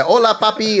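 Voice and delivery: lilting mock Latino "Hola, papi"; sing-song "Hola, papi"; mock Spanish greeting. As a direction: tease it like a flirty stereotype. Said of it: "be going around be like".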